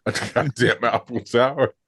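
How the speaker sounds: half-laughing, mildly panicked outburst; mock panic. Girl stuck up the Eiffel Tower, mock panic.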